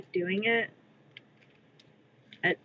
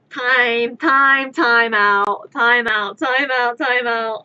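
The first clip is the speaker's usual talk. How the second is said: calling time out; 7 dB louder, much slower than usual. Real, not acted. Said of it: "calling time out while laughing".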